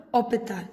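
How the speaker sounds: hospital with the H dropped, opening straight on an O; French pronunciation, silent H. Shown as a demonstration. Teacher giving a French example of mute H, hospital said without its H. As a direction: say hospital the French way, no H sound, like "opital". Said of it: "we learned here that H is mute".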